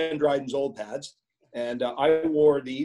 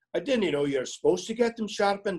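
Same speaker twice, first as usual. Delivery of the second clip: put-on Scottish accent, raised pitch; 5 semitones higher than usual. Retelling what his dad told the skating coach, in a Scottish brogue. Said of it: "in his Scottish brogue".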